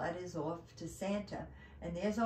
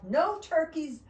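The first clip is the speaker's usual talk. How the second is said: elf's cry; 5 dB louder than usual. Acted. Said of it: "cried the elf".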